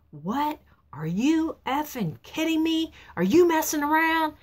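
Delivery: rising, alarmed disbelief, pitch jumping high; husband hearing his son crashed, voiced in stunned high disbelief; shocked disbelief. Husband hears son's accident news.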